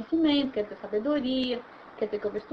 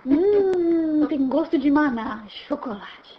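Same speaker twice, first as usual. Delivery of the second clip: savoring taste; 5 dB louder, much slower than usual. Acted. Acts tasting the revelation.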